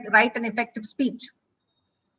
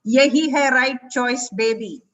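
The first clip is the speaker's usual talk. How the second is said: a light hint of a TV ad catchphrase, louder; ad slogan voice; 4 dB louder than usual. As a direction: toss the slogan off like a jingle. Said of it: "Who are you talking to?".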